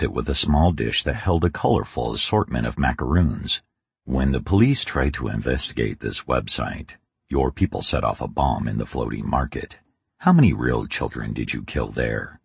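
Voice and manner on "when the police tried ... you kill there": cold, flat, even questioning. Acted. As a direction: ask it coldly, no emotion. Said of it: "Kane asked in a cold, flat voice".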